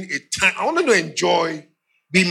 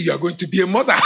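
laughing; 3 semitones higher, 3 dB louder, faster than usual. Retold or imitated. His laughing reply to wife.

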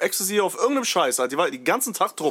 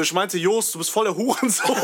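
higher retold comeback tipping into laughter; retold, cracking up; 4 semitones higher than usual. Student owning up to teacher Joosten in a retelling, breaking into laughter. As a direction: quote yourself, starting to crack up at the end.

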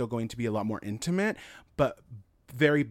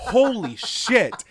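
laughing; 11 semitones higher, 9 dB louder, much slower than usual. Real, not acted. Laughing reaction to own joke.

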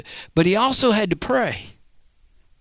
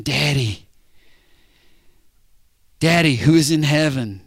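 "Daddy" said lower and tender, calling his own father; intimate prayer; 3 semitones lower than usual. Shown as a demonstration. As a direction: talk to him like a child to its dad. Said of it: "He was saying".

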